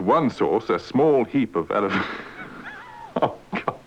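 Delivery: breaking into helpless giggles; laughing through an apology; giggling. Real, not acted. Newsreader corpsing in giggles.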